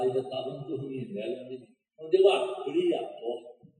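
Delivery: normal talking voice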